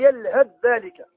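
يلهث ذلك slowly with the tha merged into a doubled dhal; slow Quranic recitation with assimilation. Shown as a demonstration. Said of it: "في نحو قوله تعالى".

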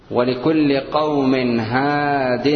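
unhurried recitation of the verse; slow recitation. Shown as a demonstration. Teacher reciting a verse example slowly for students. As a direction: draw the words out evenly. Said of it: "recites verse slowly".

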